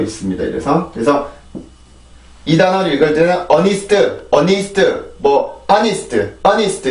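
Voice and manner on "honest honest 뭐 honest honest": honest with a breathed H, drawn out slowly; wrong honest with H. Shown as a demonstration. Teacher shows students the wrong honest. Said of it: "이런 발음이 아니라".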